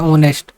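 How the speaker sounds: ऑनेस्ट said with no h, opening on the o vowel; silent h. Shown as a demonstration. Teacher showing students honest with a silent h. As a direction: say ऑनेस्ट as on-est, no breath before it. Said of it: "इसमें H word silent हो जाता है".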